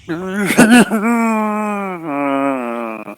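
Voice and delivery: high fake sobbing; hammed-up sobs of a scared girl; mock crying. Maddie breaking down in front of the figure, mock sobbing.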